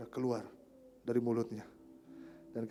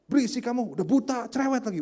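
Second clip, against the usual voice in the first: raised-voice mock telling-off; scolding; 5 semitones higher, 4 dB louder than usual. Crowd rebuking the blind man, mock scolding. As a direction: tell off a noisy nuisance. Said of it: "Malah dimarahin".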